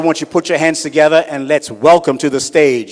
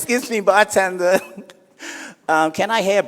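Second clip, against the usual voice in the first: flamboyant guy; 5 semitones higher than usual. Acted. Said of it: "he walks up to the bar and says".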